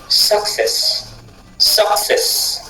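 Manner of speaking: success with cess stressed; stress on the last syllable. Shown as a demonstration. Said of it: "On insiste toujours sur le cesse de la fin". (success accentué sur cess)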